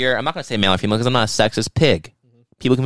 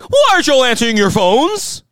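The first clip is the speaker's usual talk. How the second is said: loud high nagging whine; impatient parent yelling; 14 semitones higher, 7 dB louder than usual. Retold or imitated. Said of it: "our idiot parents are like".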